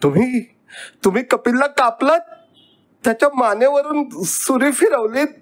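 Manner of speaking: put-on very high, rushed, stricken boy; on the verge of tears. A narrator's reading. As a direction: accuse in a high, tearful rush. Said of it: "मी रडवेला झालो".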